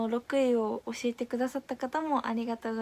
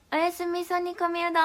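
"おやすみそ煮込みうどん" sung out higher as one bright phrase; cheery sign-off call; 5 semitones higher than usual. Shown as a demonstration. Streamer calling goodnight to her viewers, sung out higher. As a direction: call out the goodnight pun with a lift. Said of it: "では行きます。せーの。".

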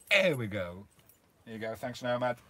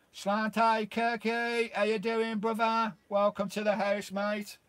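excited greeting; 7 semitones higher, 5 dB louder, slower than usual. Real, not acted. Cheery greeting to a viewer.

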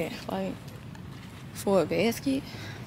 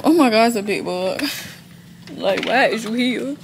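startled, louder at the bug; 4 dB louder than usual. Real, not acted. Spotting a bug in the store, startled. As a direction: jump at the sight of a bug.

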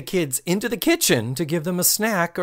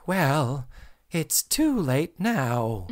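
creepy tease; much slower than usual. Retold or imitated.

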